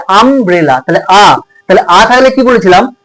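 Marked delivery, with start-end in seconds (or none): 0.1-0.8 আমব্রেলা split after আম; pronunciation demo. Shown as a demonstration. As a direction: model the opening আ of আমব্রেলা. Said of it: "কি উচ্চারণ হচ্ছে".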